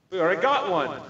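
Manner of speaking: smug French guard, hammed up; mock French guard.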